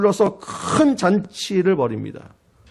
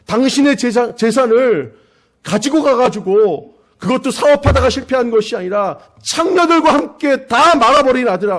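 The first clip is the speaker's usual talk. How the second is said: indignant son; 4 semitones higher than usual. Acted. Elder son confronts his father.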